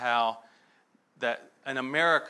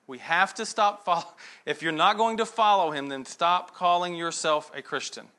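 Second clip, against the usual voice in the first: forceful exhortation; 3 semitones higher, 3 dB louder than usual. Real, not acted. Preacher's exhortation.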